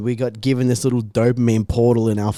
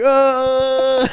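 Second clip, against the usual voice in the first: long high "uh" sound; high, drawn-out mocking noise; mock jeering noise; 10 semitones higher, 4 dB louder than usual. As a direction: imitate a crowd of kids jeering. Imitating everyone laughing and pointing.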